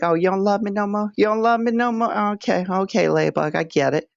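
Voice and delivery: mock heartbroken whine. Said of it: "You'd be like".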